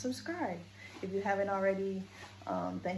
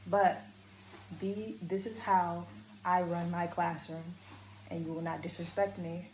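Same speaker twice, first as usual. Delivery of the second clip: power voice. Shown as a demonstration. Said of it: "and then I move back to power".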